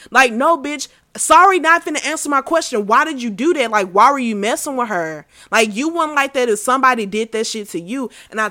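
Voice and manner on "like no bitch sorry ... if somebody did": louder, higher indignant retort; indignant confrontation. Retold or imitated. Aunt confronting the girl over her niece, indignant retelling. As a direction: demand an answer, pitched up and forceful.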